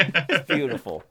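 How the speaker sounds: slow mock Trump beautiful; Donald Trump. Still joking as Trump about airstrikes, slow lightly voiced. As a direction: savour it like Trump, slowly. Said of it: "I feel like Donald Trump when I say beautiful".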